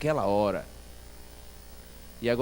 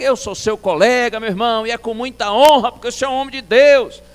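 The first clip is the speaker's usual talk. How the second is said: high, very loud retold conversation; shouting; 7 semitones higher, 11 dB louder than usual. Visiting pastor honouring his deaf colleague, loud shout. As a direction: shout respectfully so he can hear. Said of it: "realmente no grito".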